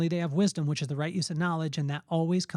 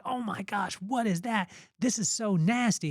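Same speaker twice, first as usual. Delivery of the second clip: higher-pitched mock disgust; disgusted kid; 4 semitones higher than usual. Kid has tasted mom's spoiled cookie, mildly disgusted. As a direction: lightly imitate a grossed-out child.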